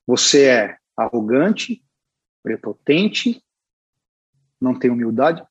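very slow, with a pause after each judgement; slow retold verdict. Senior artist judging a young applicant's portfolio, slow and deliberate. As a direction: imitate a verdict handed down word by word. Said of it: "Assim, cara, pra mim".

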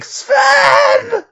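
high ecstatic scream of a name. Retold or imitated. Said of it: "I just start screaming".

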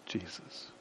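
hushed whisper of the name. Acted. Preacher to congregation, whispering Jesus in awe. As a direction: breathe the name softly in awe.

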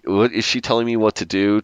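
mildly indignant questioning, imitated; mock indignant. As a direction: act out a touch of indignation. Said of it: "he goes from, like, indignant".

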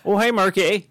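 put-on high, cheery accented greeting; Tommy Wiseau impression. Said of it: "Tommy Wiseau".

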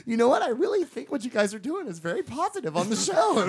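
amused impression of someone's mom; co-host's mom. Imitating co-host's mom praising the show, amused mom voice. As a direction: play the approving mother, half laughing. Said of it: "How do you know what she sounds like?".

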